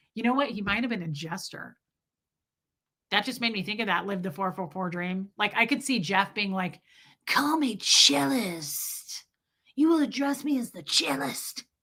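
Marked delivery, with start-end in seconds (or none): 7.3-11.6 slow, creepy guy voice. A speaker imagines another person talking, in a put-on creepy cellist voice. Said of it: "We always give creepy guys the cellist voice".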